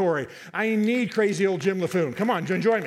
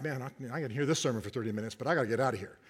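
imitating a bored listener; 6 semitones lower, 7 dB quieter, faster than usual. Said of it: "some of you looking at me like".

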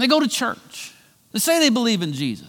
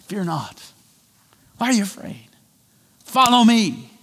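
Jesus, gentle; 2 semitones higher than usual. Acted.

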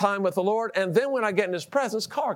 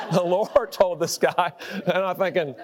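laughing. Real, not acted. Laughing at the revelation.

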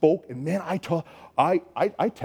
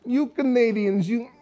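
higher, slow, mocking put-on voice of the other camp leader; a lightly mocking impression of a rival leader; imitating the other leader; 6 semitones higher, slower than usual. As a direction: drawl it out slowly, pitched up, teasing the Canadians. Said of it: "and he goes".

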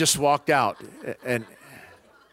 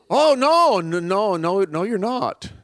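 incredulous denial; 6 semitones higher, 4 dB louder, slower than usual. Retold or imitated. Classmate refuses to believe he converted.

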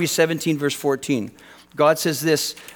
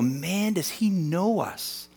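quiet wonder; 3 semitones higher, 6 dB quieter, slower than usual. Retold or imitated. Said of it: "to go".

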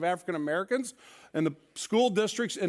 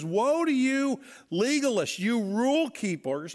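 Jesus's rebuke; 4 semitones higher than usual. Retold or imitated. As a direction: denounce the rule keepers. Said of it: "he says".

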